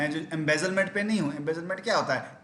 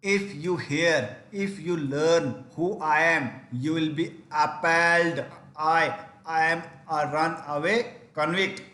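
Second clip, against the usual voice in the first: dramatic confession; 4 dB louder, much slower than usual. Acted. Dramatic confession read aloud.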